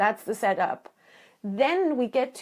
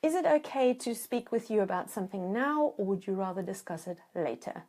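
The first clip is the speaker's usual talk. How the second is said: gentle request. Shown as a demonstration. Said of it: "So what that looks like is".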